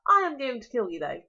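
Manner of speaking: booming dragon threat; loud. Acted. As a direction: announce the kill with relish.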